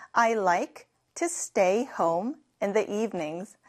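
slow, careful teacher repeat. Shown as a demonstration. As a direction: read it again slowly and clearly. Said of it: "제가 방금 말한 문장에". (천천히 다시 읽기)

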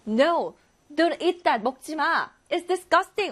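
mild mock yell of disgust; mother's scolding yell. Mother stops child eating from garbage, mild mock yell. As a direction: scold like a mother, without really shouting. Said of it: "엄마가 소리치죠".

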